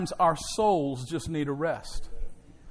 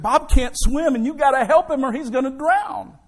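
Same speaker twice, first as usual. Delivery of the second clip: desperate call, higher and louder; crying out; 8 semitones higher, 7 dB louder than usual. Acted. Friend begging the lifeguard to save Bob, desperate shout. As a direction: plead loudly for help. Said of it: "he cried out to him".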